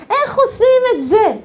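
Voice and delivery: high-pitched, insistent outcry; exclaimed question. Acted. Teacher repeating her question to the class, high outcry. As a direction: throw the question up high, half laughing.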